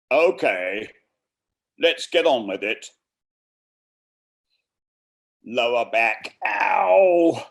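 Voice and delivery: put-on creaky morning stretch, northern accent; North Country accent. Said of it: "in an imitation North Country accent".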